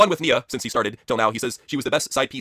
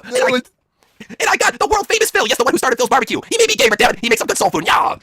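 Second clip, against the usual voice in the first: high, overbearing wife voice; Stephanie; 12 semitones higher, 4 dB louder than usual. Acted. Wife presenting the cooks, high and brash. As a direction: announce it in a pitched-up wife voice.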